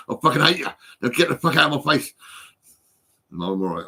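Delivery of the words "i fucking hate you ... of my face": louder, real anger boiling over; angry outburst. Real, not acted. Ranting at black people he blames, louder angry outburst. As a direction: snap it out, fed up.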